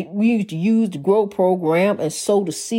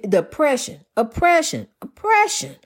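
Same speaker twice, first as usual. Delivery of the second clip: each oppression pitched higher; rising repetition; 4 semitones higher than usual. Real, not acted. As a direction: climb higher with every repeat, building. Repeating oppression, climbing in pitch.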